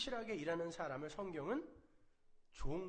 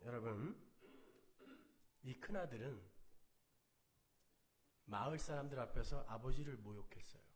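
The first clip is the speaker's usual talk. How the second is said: hushed preaching; 6 semitones lower, 8 dB quieter than usual. Acted. Quiet, low sermon close.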